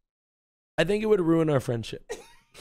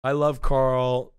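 dreamy; 4 semitones lower, much slower than usual. Real, not acted. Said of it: "Am I getting weird?".

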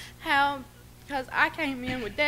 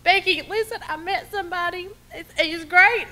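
higher and louder, bursting with news; excited friend; 6 semitones higher, 7 dB louder than usual. Retold or imitated. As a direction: gush it out like big news. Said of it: "she was so excited".

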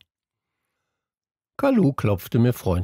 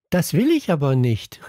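mildly angry, higher-pitched protest; understated angry refusal, pitched up; angry cry; 6 semitones higher than usual. A narrator's reading. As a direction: protest with a touch of temper. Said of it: "rief Pink und stampfte wütend".

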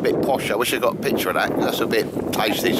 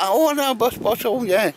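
much higher mock girly pleading voice; imitating the girls; slower than usual. Girls at work begging their boss for meatballs, high mock pleading. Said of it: "the girls were like".

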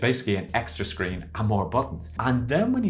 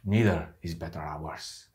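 put-on Spanish accent; 7 semitones lower than usual. Car salesman advising his amigo, imitated Spanish accent. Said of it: "And I also had that accent".

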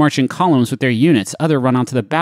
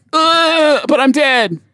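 mock dying voice; 10 semitones higher, slower than usual. Acting dead soldier.

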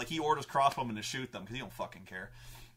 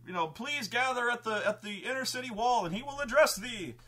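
lightly raised, formal herald voice; crier's proclamation; 11 semitones higher than usual. Retold or imitated. Crier calling the crowd to the wall, higher formal announcement. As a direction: announce it to the whole town, a bit high. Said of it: "He's like".

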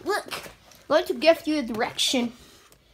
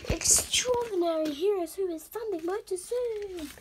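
whisper; 4 semitones higher than usual. Acted. Dramatic whispered intro.

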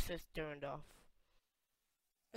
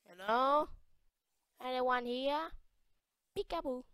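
high, singsong searching call; playful calling out; 7 semitones higher, 3 dB louder than usual. Pretend. Player looking for anyone in the room, high playful calls. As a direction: call out like hide-and-seek.

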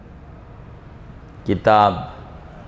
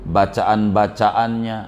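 solemn boss addressing followers; 3 semitones lower than usual. Acted. Boss to his henchmen, solemn farewell address. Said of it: "Kata bosnya begini".

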